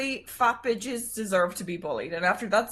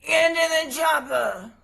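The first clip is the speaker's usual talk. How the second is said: slow, higher action-hero growl of a line; Arnold Schwarzenegger impression; 4 semitones higher, 4 dB louder, slower than usual. Shown as a demonstration. Taking her turn in impression chicken as Arnold, slow. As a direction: drag it out like a movie muscleman. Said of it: "Arnold Schwarzenegger, you go first".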